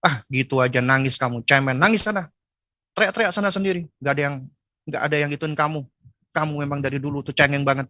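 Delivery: scornful brush-off of a crying child, lightly acted; mildly mocking a careless parent; dismissive parent. Indifferent parent scolding a crying child, lightly dismissive. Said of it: "cuek bebek".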